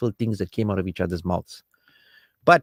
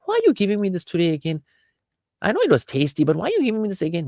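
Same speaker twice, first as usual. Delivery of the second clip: higher, fast whiny complaint about the same meal; mock complaining husband; 9 semitones higher, faster than usual. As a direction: act the husband griping at the dinner table.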